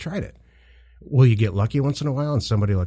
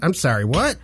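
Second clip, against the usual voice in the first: dodging a caller; 7 semitones higher, 3 dB louder than usual. Pretend. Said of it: "you're breaking up".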